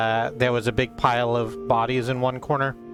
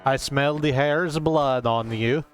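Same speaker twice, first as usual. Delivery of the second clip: Leshy voice; 2 semitones higher, slower than usual. Acted. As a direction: try the line again, darker and slower. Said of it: "that's not your voice".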